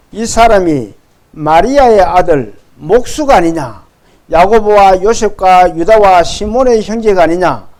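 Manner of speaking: firm, projected Bible reading; scripture read aloud. Acted. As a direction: read the verse out for the congregation. (힘 있게 성경 봉독)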